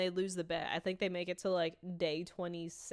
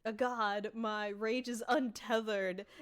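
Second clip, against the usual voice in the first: mild mock scream; 3 semitones higher, 4 dB louder, slower than usual. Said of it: "And he's screaming".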